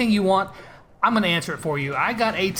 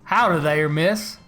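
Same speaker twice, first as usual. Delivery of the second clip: lightly put-on Southern cowboy charm; mock Southern gentleman flirting; Southern accent. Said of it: "getting an accent would probably help as well".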